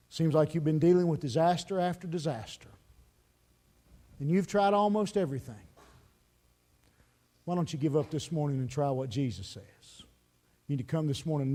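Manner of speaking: low, softened pastoral appeal; altar call. Real, not acted. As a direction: gently invite them to come and pray. Preacher gives closing altar call.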